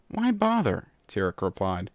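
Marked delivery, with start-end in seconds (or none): 0.1-0.9 scornful. Acted. Scornful reply.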